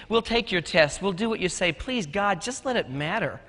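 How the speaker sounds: softly imitated student's plea; quiet, understated pleading, sinking at the end; heartfelt plea. Fifteen-year-old pleads to the teacher, soft heartfelt plea. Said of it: "broke my freaking heart".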